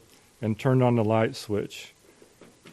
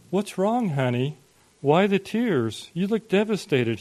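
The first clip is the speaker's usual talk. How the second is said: higher, lilting questions of concern; concerned husband; 7 semitones higher than usual. A narrator's reading. Father finds his wife in tears, concerned. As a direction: ask with gentle worry, pitch lifted.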